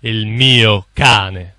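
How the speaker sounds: loud slow stunned swear; loud, slow shocked oath; shocked curse. Acted. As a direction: blurt it out stunned. Shocked at seeing dog.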